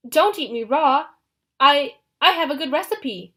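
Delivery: panicked babble. Acted. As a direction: talk fast to save your skin. Grover babbles to save himself.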